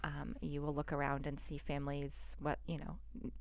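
soft and gentle; gentle grief counselor. Pretend. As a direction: reassure a newcomer softly. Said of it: "What would you say to somebody".

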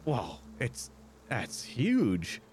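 lightly voiced country barkeep, amazed; a hint of a Southern innkeeper gawking; Southern tavern keeper. Tavern keeper reacts to Hydra.

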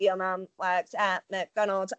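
slow flat robot voice. Retold or imitated. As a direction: say it like a voice changer robot. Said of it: "in a robot voice as well".

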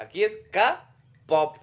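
K-pop with the Spanish letter name ka, said ka-pop, slow. Shown as a demonstration. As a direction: spell out K-pop as ka-pop, Spanish style, very slowly. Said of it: "Cuando la K suene cake allá en Estados Unidos".

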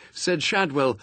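ordinary delivery

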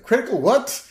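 high, loud confused cry; a dim dad startled; alarmed cartoon dad. Homer voiced, alarmed.

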